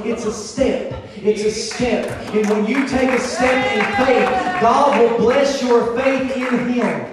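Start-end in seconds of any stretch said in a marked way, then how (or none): 2.3-7.1 full-force preaching. Real, not acted. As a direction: drive it home to the congregation.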